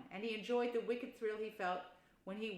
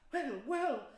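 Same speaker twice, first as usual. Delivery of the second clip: Mole voice; 6 semitones higher, 5 dB louder than usual. Acted. Mole replies.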